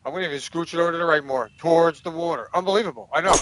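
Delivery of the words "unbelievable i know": ordinary talk, nothing marked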